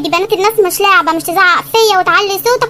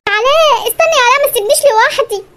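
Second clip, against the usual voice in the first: higher, begging him to wait; high pleading; 5 semitones higher than usual. Acted. Abandoned girlfriend begging Alaa to wait, high pleading. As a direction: beg him not to leave you.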